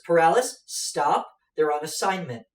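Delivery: loud, firm call to stop; urgent call. Acted. Debilica stepping between giant and party, loud urgent command. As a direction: shout him down to shield them.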